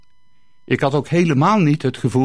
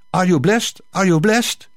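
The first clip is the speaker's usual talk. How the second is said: concerned question, higher, rising on blessed; worried priest; 4 semitones higher than usual. Acted. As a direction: ask anxiously in halting English. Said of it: "vroeg hij bezorgd".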